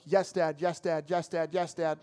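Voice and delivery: lightly acted, quick-fire agreeing; obedient son. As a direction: agree over and over, dutifully. Son obediently answering his dad.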